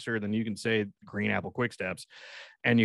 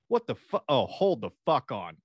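mock road rage; 2 semitones higher than usual. Imagined angry dad pulling over.

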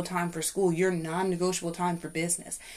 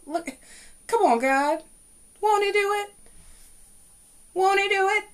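much higher, loud excited cry of praise; joyful praise; 13 semitones higher, 4 dB louder than usual. Pretend. Listener imagining her blessing, shouting excited praise. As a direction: burst out thanking God in delight.

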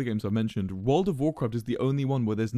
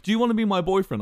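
put-on higher, quicker, coy girl voice, lightly done; 8 semitones higher, 5 dB louder, faster than usual. Quoting the girl in game.

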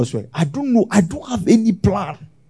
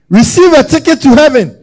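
mock preacher shout; 9 semitones higher, 10 dB louder than usual. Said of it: "I can never say".

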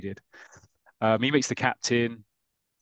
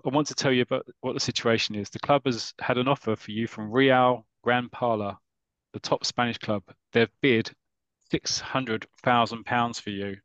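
a hint of the gruff manager breaking the news; Bobby Crane impression. Podcast host reading Bobby Crane's lines to a player, lightly voiced. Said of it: "Sounded just like him".

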